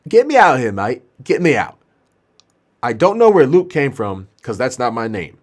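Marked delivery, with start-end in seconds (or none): 0.1-1.8 demanding patient. Acted.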